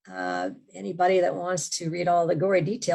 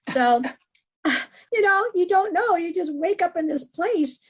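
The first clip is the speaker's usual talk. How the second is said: laughing; 11 semitones higher, 5 dB louder than usual. Real, not acted. Laughing at the odd story.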